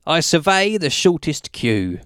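measured comic verse with pauses between lines; poem recitation. Acted. Performing a witty ditty about supermarket checkouts, poem recitation.

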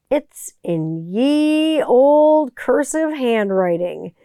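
slow, drawn-out mock olde-English announcer; old-timey voice. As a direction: stretch it like a quaint old storyteller. Jokey old-timey answer to son.

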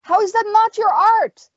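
high, insistent challenge; puzzled fighter. A narrator's reading. Confused fighter questioning the witch's art, puzzled and insistent. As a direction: push the question at her, rising in pitch. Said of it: "Rolf's brow fur-, furrowed".

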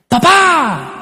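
put-on high, drawn-out kid's yell; acted child's high-pitched call; yelling for dad. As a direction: holler across the house for dad. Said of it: "me grita en la casa".

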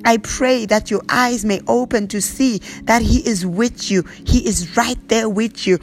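prayer voice, lightly intoned, slipping into tongues; fervent prayer. Acted. Pastor praying over the congregation, earnest prayer voice. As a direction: pray over them, steady and earnest.

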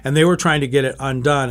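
ordinary delivery

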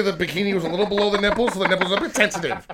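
high, rushed, amused chatter; talking fast. Real, not acted. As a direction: race through the silly explanation. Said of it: "Am I still talking fast?".

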